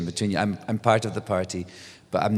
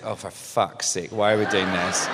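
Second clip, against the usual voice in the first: muttered exasperation; 2 semitones lower than usual. Retold or imitated. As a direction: grumble under your breath while pushing. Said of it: "And I'm like this".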